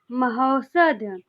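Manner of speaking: slow महौषध, stretching the औ in महौषध; drawn-out vowel. Shown as a demonstration. Teacher to students, stretching महौषध slowly. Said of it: "इसमें औ औकार है".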